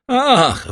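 loud, high-pitched "ach" of a sigh. A narrator's reading. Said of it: "westchnął Caderousse".

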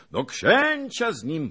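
loud, high rallying cry; excited shouted demand; crowd shouting. A narrator's reading. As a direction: call it out over a cheering crowd. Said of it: "powtarzali inni".

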